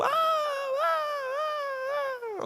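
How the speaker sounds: high wailing cries of fright; crying screams of fear. Acted. Disciples in the storm, wailing screams of fear. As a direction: wail like men lost in a storm. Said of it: "gritando de medo".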